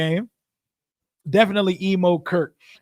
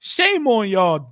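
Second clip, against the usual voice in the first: drawn-out scolding; 2 semitones higher, 4 dB louder, much slower than usual. Acted. Scolding the team for a home loss.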